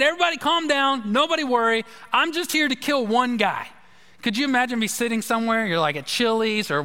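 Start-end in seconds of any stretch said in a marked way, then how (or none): 0.0-3.7 imitating a gunman's casual threat; retold gunman. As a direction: play the calm killer addressing the bar. Retelling a gunman's bar warning.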